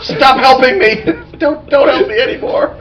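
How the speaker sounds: high, pleading cry played for laughs; mock screamed plea. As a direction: beg frantically in a high put-on voice. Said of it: "he's yelling and screaming".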